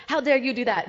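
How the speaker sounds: mock French outrage, half laughing; French accent. Preacher imagining a glove-slap duel challenge, mock French accent. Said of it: "with some French accent".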